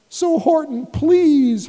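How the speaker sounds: small pleading voice. A narrator's reading. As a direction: beg him, a touch high. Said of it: "pleaded the voice of the mayor".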